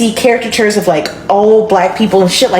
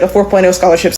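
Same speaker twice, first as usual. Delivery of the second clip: talking through food; mouth full; 2 semitones lower, faster than usual. Real, not acted. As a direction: say it round a mouthful. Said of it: "Sorry, I was eating".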